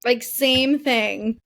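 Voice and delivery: choppy, cutting-out call audio; dropping connection, slowed words; glitching audio. Real, not acted. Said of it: "Oh, sorry, you cut out again".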